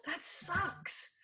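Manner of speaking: soft, sympathetic "That sucks.". Shown as a demonstration. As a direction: say "That sucks." softly and gently, like to a friend. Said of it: "if that's the way you would say that, say that".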